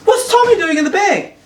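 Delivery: high-pitched, sharper retold question. She questions him about the bag, retold questioning. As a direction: imitate her high-pitched query.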